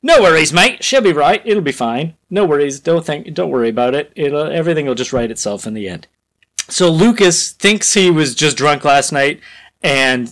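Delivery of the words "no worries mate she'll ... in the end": lightly put-on Australian accent, easygoing. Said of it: "I wanna make him Australian".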